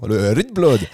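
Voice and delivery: teasing imitation of her Danish rugbrød; playful fake-Danish rugbrød; mock Danish accent. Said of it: "dans votre tête, c'est comme ça l'accent".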